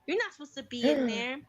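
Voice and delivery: scolding. Retold or imitated. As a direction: order her out of the cabinet. Scolding the daughter in cat cabinet.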